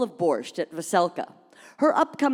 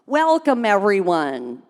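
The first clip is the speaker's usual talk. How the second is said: grand welcome; 2 semitones higher, 3 dB louder, slower than usual. Acted. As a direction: stretch the welcome like a compere. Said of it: "She paused for dramatic effect".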